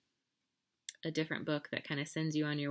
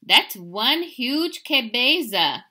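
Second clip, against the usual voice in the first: awed; 6 semitones higher, 11 dB louder, much slower than usual. Acted. Kitty boy measuring his head.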